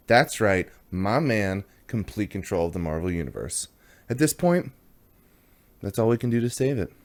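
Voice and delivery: mock-serious announcement; dramatic catchphrase. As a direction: deliver it like a grave proclamation. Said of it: "Thank you, Jeff Smith, for that catchphrase, which I added a little bit of inflection onto".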